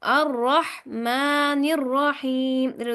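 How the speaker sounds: अर्रहमानिर्रहीम chanted slowly with a doubled, heavy र; slow Quran recitation. Shown as a demonstration. Teacher models the verse for students to repeat. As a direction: hold the vowels and hit the shadda. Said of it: "दोहराएं, सुनाएं".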